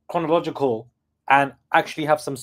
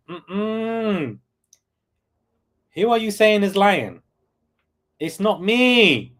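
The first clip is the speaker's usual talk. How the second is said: incredulous; 5 semitones higher, slower than usual. Real, not acted. Incredulous reaction to accusation.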